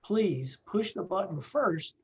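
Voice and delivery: patient, deliberate warning; slow emphatic repeat. Shown as a demonstration. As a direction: stress on first, said slowly. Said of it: "And I'll say it again".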